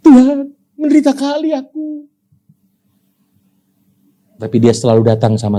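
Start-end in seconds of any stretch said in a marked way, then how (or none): 0.0-2.1 mock lament. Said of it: "Mungkin dia sudah".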